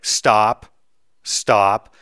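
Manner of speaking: loud clipped Stop stop like a telegram code word; loud mock telegram reading. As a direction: bark each stop as a telegram break. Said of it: "it'd be like".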